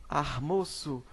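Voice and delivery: armoço with r in place of l; rural rotacism. Shown as a demonstration. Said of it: "muita gente que fala assim".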